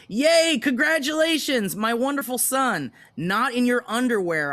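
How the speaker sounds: hammed-up doting mother reading her text; mock proud mom. Mom's text voiced in story.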